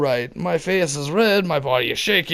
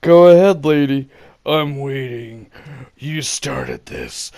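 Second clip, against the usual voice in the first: crackling voice; 5 dB louder than usual. Retold or imitated. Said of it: "Me, not as loud, voice crackling".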